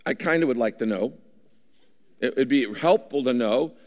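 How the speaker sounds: mock casual indifference; lukewarm prayer. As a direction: shrug it off half-interested. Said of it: "It's not like".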